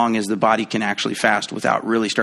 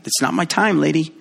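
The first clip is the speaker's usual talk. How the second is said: mock sass; 3 semitones higher than usual. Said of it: "he even says that to his mom".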